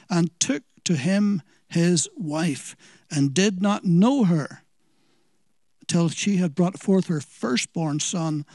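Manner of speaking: measured, solemn Bible reading; scripture reading. Acted. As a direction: reverent scripture reading that slows at the end. Reads scripture aloud.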